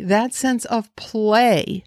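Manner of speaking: slow, leaning on the word "play"; emphasis on play. Shown as a demonstration. Trainer urging horse owners toward play, slow stress on "play". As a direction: draw out "play" to make it matter. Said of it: "emphasis on play".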